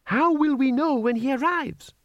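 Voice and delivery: high, eager comrade voice; eager young comrade. A narrator's reading. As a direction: ask like a keen young recruit. Cadre member asks.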